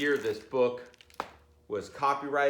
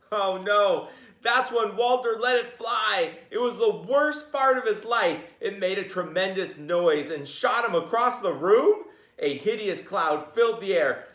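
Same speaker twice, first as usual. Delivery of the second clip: much higher and louder, dramatic climax; excited storytelling; 10 semitones higher, 7 dB louder than usual. A narrator's reading. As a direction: build the big moment for the kids.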